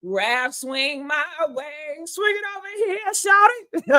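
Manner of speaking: sing-song call rising to a high shout; flirty calling out. Pretend. Calling out to Ralph, ending in a high flirty shout.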